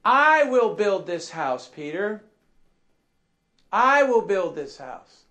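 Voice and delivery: "I" hit hard and held at the start; emphatic. Acted. Preacher stressing Jesus's words to Peter, emphatic on "I". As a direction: lean firmly on "I", then ease down. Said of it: "why am I emphasizing this".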